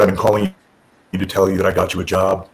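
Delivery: low monotone, no excitement; Tommy Dreamer. Retold or imitated. Boss telling wrestler he has a job, monotone. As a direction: give good news in an imitated deadpan drone. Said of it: "he's this monotone delivery".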